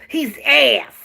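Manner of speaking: lightly voiced coach, deadpan; flat coach impression. Mimicking the coach's blunt press conference line. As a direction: say it dead flat like he did. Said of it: "That's how he said it".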